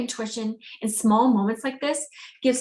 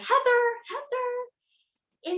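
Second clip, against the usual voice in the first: very high, carrying calling holler; 13 semitones higher than usual. Demonstrating how the ego calls out, yelling a name. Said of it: "where ego is more like a yell".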